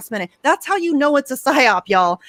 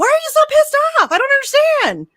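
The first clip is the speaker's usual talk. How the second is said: sarcastic mock disbelief; 6 semitones higher than usual. Mocking calls to be nice.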